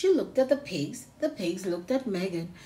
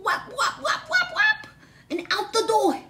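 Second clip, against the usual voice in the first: whap rising ever higher through laughter; laughing sound effects; 12 semitones higher, 6 dB louder than usual. Acted. Reader laughing as pigs run over Megan.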